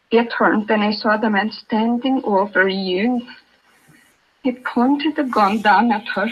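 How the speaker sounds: she sees it all again, voice lifting; reliving horror. Acted. Mother relives daughter's shooting.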